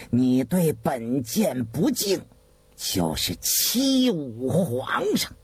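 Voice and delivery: low, slow, officious menace; blustering threat. A narrator's reading. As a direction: threaten with hollow authority, drawing the words out. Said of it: "外强中干的威胁". (外强中干地威胁)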